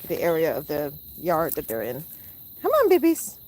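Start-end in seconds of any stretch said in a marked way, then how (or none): 2.6-3.4 loud high call to the flock. Real, not acted. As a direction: call the birds in. Calling the geese.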